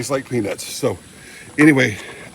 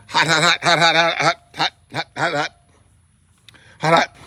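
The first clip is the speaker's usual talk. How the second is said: panting hot hot with full mouth; mouth full of hot food; 4 semitones higher than usual. Real, not acted. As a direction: blow through a too-hot bite.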